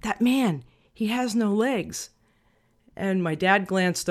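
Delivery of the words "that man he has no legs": put-on softened child's voice, not fully whispered; retold whisper. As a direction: quietly confide it, imitating a child. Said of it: "I whispered in his ear".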